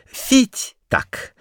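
very high falling "Фить так"; squeaky whistle. A narrator's reading. Kurilka dancing and squeaking, very high. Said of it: "закричал Курилка".

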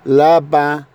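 لابا ending in a light nasal vowel; لابا, French lapin, the final n through the nose. Shown as a demonstration. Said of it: "برضو لأن نزال من الأنف".

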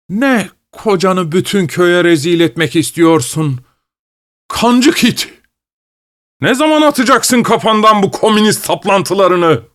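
husband explodes at his wife over the meeting; furious husband. Acted. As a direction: spit the insult at her.

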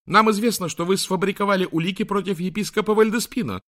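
high, loud near-shout; almost shouting the accusation; contained shout. Acted. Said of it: "почти кричала Мартин". (почти крик)

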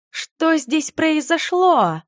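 high, slow stunned gasp of a question; breathed out in shock. Acted. Heroine sees her wrecked bedroom, stunned breathy question. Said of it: "невольно выдохнула я".

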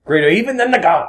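high, loud movie-star delivery; lightly done Denzel voice; Denzel impression. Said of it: "You were channeling Denzel there".

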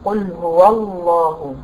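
قل هو الله with هو drawn out slowly and stressed; slow Quran recitation. Shown as a demonstration. Teacher to student, slowly reciting قل هو الله as a tajweed model. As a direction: chant it slowly, leaning on the open waw of هو. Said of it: "فتحة الواو أهي".

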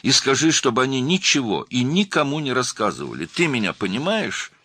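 high, loud insistence; urgent. A narrator's reading. Girl insisting after crying out.

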